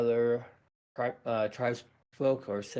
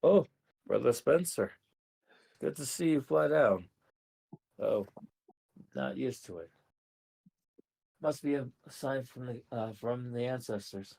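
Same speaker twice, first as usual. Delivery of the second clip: put-on old tribal elder. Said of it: "Find your Indian accent".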